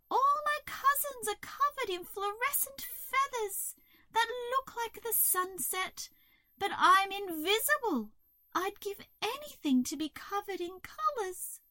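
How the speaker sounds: very high, plaintive crow voice; miserable crow. A narrator's reading. Crow envying her colourful cousins, miserable. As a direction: lament it high up all through.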